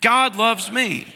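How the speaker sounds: slow, sincere "God loves me"; like you mean it. Shown as a demonstration. Pastor leading the congregation, slow and heartfelt. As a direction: say it slowly and really mean every word. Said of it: "Say it like you mean it".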